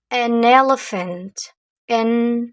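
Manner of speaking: "An elephant" slowly, each sound clear; slow teacher model of "An elephant". Shown as a demonstration. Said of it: "teacher models the word". (lentement, "An elephant" bien articulé)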